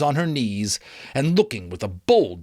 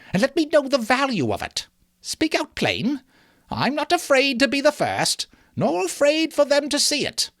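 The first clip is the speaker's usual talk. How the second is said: higher, bold challenge; bold woman; 5 semitones higher than usual. Acted. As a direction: dare them to judge you. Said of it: "replied the woman".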